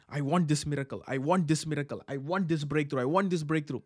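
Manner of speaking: mock needy believer. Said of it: "some people are sitting and saying".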